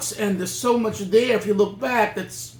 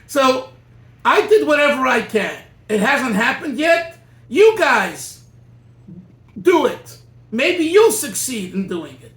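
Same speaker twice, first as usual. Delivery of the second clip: louder, pressing plea to the listeners; a louder, emphatic appeal to his followers; 3 semitones higher, 4 dB louder than usual. Retold or imitated. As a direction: retell the Rebbe's urgent charge with force. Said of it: "with a lot of emotion and very emphatic".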